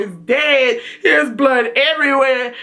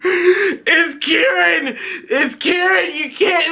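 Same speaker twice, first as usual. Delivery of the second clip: crying plea; 4 semitones higher, much slower than usual. Retold or imitated. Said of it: "and he like".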